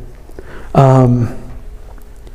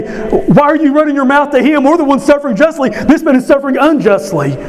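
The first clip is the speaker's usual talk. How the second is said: a pitched-up retold rebuke; thief yelling; 11 semitones higher than usual. Dying thief rebuking the other criminal, high mock yell. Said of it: "He yells at the other".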